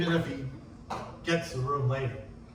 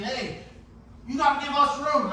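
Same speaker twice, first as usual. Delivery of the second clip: high mock yell; imitated screaming; 9 semitones higher, 3 dB louder than usual. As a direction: yell it like a rival demanding space. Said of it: "was just screaming at me".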